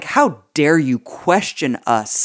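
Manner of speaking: slow, affronted mock arrogance; arrogant. Podcaster mimics politician rebuffing a questioner, arrogant and slow. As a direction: imitate a haughty politician, drawing out each word. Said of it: "He was so goddamn arrogant".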